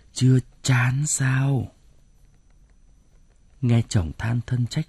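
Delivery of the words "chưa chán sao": slow whispered reproach; hissed reproach. Acted. Husband reproaching his wife, slow whisper. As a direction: breathe the question out slowly and bitterly. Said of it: "Ông Đức dằn giọng".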